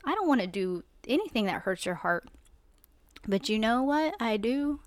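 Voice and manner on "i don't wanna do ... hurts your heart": heartfelt reply. Retold or imitated. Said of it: "And I'm like".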